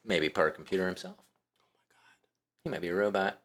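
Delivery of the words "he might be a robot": whispered joke, no voice at all; a conspiratorial whispered quip. Real, not acted. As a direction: lean in and breathe it like a secret. Joking aside about hacker.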